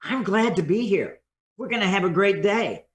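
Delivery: sincere upbeat opener; glad, unhurried welcome. Shown as a demonstration. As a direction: take your time and mean it. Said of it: "the really taking the time".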